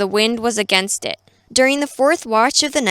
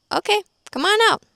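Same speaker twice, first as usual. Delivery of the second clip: much higher, fast and casual; breezy Jesus; 10 semitones higher, faster than usual. Retold or imitated. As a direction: toss it off like an easy invite. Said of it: "He says".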